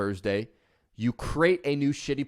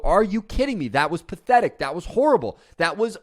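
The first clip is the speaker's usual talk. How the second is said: harsh self-criticism; 4 semitones higher, 4 dB louder than usual. Retold or imitated. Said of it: "we look at ourselves in the mirror and we go".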